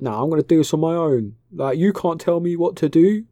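put-on high, whiny teenage strop; sulky teenager. Ren snapping at Snoke like a sulky teenager, high and whiny. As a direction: throw a petulant teen tantrum. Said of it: "some fucking fifteen-year-old teenager".

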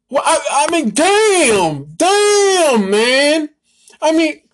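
high, loud, crying damn; anguished cry. Real, not acted. Fan despairing over the team's losing season, crying out. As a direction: break into an exasperated wail. Exasperated rant about the team.

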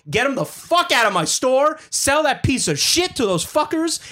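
high-pitched acted-out exasperation; outspoken angry order. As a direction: throw them out, retelling your outburst. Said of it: "out loud in English".

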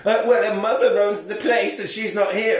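lightly put-on silly waiter, a bit high; mildly comic imitation of a waiter; ridiculous waiter voice. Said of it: "he's got the most ridiculous voice".

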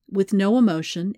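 ordinary delivery, nothing marked

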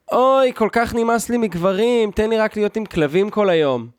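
lightly voiced Tel Aviv woman, exaggerated; mock fed-up woman. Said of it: "זה בדרך כלל יהיה משהו כזה". (חיקוי קל של אישה ממורמרת)

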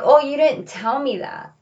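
loud, high "Oh, you didn't tell me that."; startled daughter realizing the plan; surprised. Retold or imitated. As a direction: caught off guard, let "Oh" jump up. Repeats own reaction louder.

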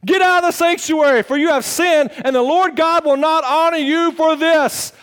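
loud, high preaching rebuke; priests rebuking king. Acted. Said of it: "they said".

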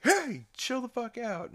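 high-pitched put-on shout; mock yell. Brian breaking up the kids' fight, mock yell. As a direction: call out high, pretending to scold. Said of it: "fucking yell at them".

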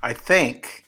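deliberate emphasis on THINK; stress on THINK. Real, not acted. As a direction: THINK leaned on after "I". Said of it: "I'm gonna stress the word think".

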